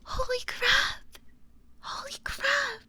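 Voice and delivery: very high, overwhelmed squeal; real squealing excitement. Real, not acted. Streamer thanking Sushi for a surprise raid, squealing with excitement.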